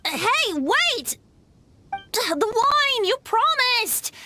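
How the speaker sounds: calling after someone. Acted. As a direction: plead after him before he leaves.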